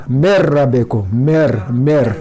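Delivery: मेर रबे को with the nun dropped and the ra doubled; merged nun. Shown as a demonstration. Teacher shows students how to read it, ra doubled. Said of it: "ये पढ़ा जाएगा ऐसे".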